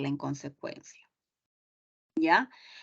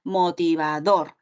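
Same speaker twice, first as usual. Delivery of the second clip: Motivador, slowly, with stress on the final DOR; slow teacher's demo of Motivador stressed on DOR; stress on last syllable; 3 semitones lower, slower than usual. Shown as a demonstration. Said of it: "la fuerza de voz está en la última sílaba".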